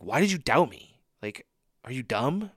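mildly acted angry reproach; a touch of incredulous anger; angry rebuke. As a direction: scold in mock exasperation. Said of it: "I read that, like, angry".

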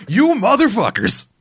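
high, loud, slow cartoon yell; hammed-up furious shout; mock outrage. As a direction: bellow it at the greedy vultures. Mock outburst at the vultures.

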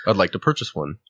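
a hint of a formal, proper customer voice; white black person voice. Customer politely corrects the vendor, lightly proper. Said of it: "your white black person voice".

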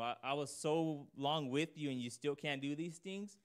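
Lord rebuking. Retold or imitated. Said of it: "the tone of the Lord saying".

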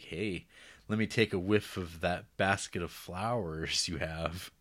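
low, slow suggestive line; sly flirty Lincoln. Retold or imitated. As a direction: leer a little, drawing it out. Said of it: "Mister Abraham Lincoln's like".

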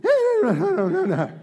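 a hint of mock worry, fast in places; lightly mock the fearful voice; mock fretting. Preacher mocking fearful talk, half-hearted worried voice. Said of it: "laughs before mocking".

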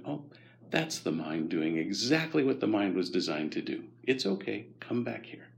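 mildly soothing, forgiving self-reassurance; gentle self-talk. Shown as a demonstration. Talking to your own wandering mind, gently. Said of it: "But gently going".

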